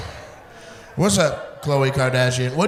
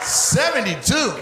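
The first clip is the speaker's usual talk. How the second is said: slow stunned repeat; 5 semitones higher, slower than usual. Real, not acted. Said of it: "repeating the age".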